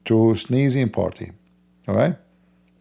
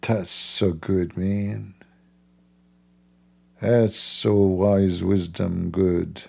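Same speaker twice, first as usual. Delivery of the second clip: sarcastic praise; 3 semitones lower, much slower than usual. Real, not acted. Slow mock praise.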